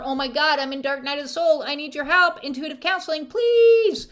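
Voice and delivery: pleading, rising to high cry; desperate plea. Pretend. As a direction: beg for help, frantic. Desperate client voice.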